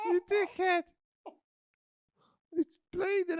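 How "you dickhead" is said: louder insult. Acted. Insulting partner mid-scene.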